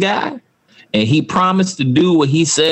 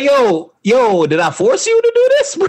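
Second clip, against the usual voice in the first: high mock hurt; 10 semitones higher than usual. Mock hurt homie quote.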